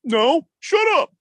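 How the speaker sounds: high, slow whiny comeback; defensive mock retort. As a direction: protest as if close to tears. Acted reply to the crybaby taunt.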